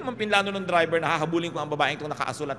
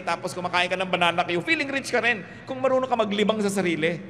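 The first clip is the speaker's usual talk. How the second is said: higher and louder, teasing the congregation; excited comic riff; 5 semitones higher, 3 dB louder than usual. Acted. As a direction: build the joke with gleeful energy. Comic riff on cheap foot spa. (masiglang pabirong pagkukuwento)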